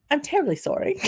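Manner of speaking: put-on high, overly polite Scottish-accent apology; mock Scottish accent. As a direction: read the email out in a hammed-up Scottish accent. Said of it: "I'm reading the email in their, like, accent".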